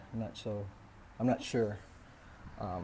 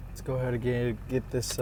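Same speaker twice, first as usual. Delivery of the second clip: breathless, winded words; out of breath. Real, not acted. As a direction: talk while still catching breath. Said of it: "sorry, I'm out of breath".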